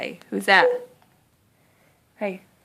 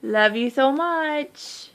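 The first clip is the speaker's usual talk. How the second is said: tender; 5 semitones higher, slower than usual. Real, not acted. Parent cooing to toddler.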